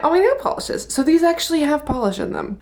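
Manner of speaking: breathless after cleaning; out of breath. Real, not acted. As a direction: talk while winded.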